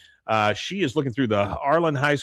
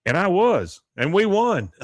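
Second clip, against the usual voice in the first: Hank; 7 semitones higher, 4 dB louder than usual. Retold or imitated. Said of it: "Hank says".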